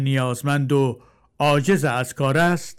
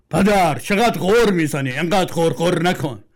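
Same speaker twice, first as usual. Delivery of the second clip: put-on louder, irritated young man; annoyed son; 4 semitones higher, 3 dB louder than usual. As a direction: snap back at the nagging father. Son scolds father.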